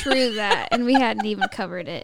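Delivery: laughing through the words. Real, not acted. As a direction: chuckle while talking. Laughing at the mistake.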